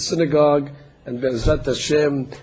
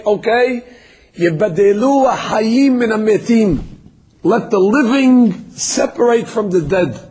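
raised, high call over the graves; Moshe calling out; 5 semitones higher than usual. Acted. Moshe calls across the desert graves, raised and high.

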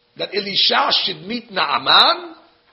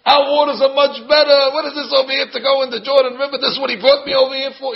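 louder and higher, outraged rant; indignant outburst; 5 semitones higher, 3 dB louder than usual. Retold or imitated. Preacher acting Naaman's outraged tirade, loud and high. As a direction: rant like an offended general. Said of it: "He's flipping".

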